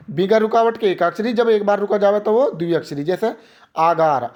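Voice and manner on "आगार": आगार split as आ, then गार; one-pause word break. Shown as a demonstration. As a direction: pause briefly after the आ of आगार. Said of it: "आ पे रुके आप".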